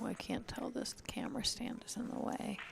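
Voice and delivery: hushed whisper so players can't hear. Real, not acted. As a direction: whisper it under your breath. Quiet commentary during play.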